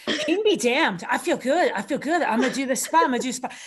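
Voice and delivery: giddy, laughing self-hype; heat of the moment. Retold or imitated. Wrestler hyping a risky spot, giddy laughing hype. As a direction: pump yourself up, chuckling. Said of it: "You're like".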